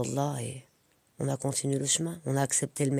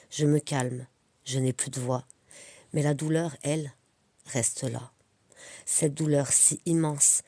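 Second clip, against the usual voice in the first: poème lu posément, en courtes phrases séparées de pauses; dis-le comme un poème, vers après vers; récitation de poème. Acted. (poème récité, chaque vers posé)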